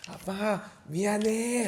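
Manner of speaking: put-on high, sing-out little-girl apology; cutesy nasal wheedle. Shown as a demonstration. Uncle coaching his niece to apologize, high nasal wheedling. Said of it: "콧소리 한번 내봐".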